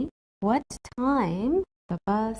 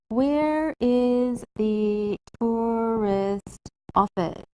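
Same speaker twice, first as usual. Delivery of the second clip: slow model question; much slower than usual. Shown as a demonstration. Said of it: "change this to a polite question".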